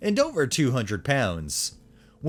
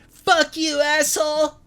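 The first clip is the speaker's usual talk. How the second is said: high, loud furious outburst; angry yell; 4 dB louder than usual. A narrator's reading. Angry driver yelling back at the narrator, high furious shout. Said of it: "he yells back at me".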